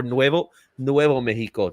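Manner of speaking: Nuevo Mexico said the Spanish way, rolled and clear; Spanish pronunciation. Shown as a demonstration. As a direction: give Nuevo Mexico a light Spanish accent. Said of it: "keep it in the Spanish dialect".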